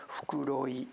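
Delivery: voiceless whisper of Fukuroi; murmured whisper reading a name. Real, not acted. Reading station name hushed.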